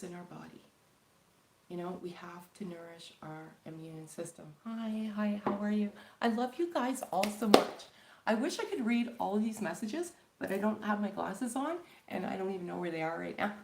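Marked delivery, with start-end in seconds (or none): 4.6-9.6 bright burst of hello, higher and louder; light up as the viewers come in; gushing hello to the viewers; excited greeting. Real, not acted. Greeting viewers arriving on live.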